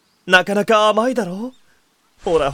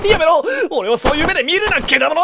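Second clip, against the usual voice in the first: shouting; 7 semitones higher, faster than usual. Acted. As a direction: yell it off in a rush. Recoiling from friend's joke.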